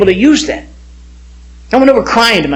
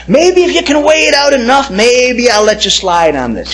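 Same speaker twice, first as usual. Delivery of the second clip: lightly voiced tempter, starting higher; coaxing Satan; 5 semitones higher than usual. Satan tries to convince him, lightly voiced coaxing. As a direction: dangle a bargain, stretching the last words. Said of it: "Satan's gonna try and convince you".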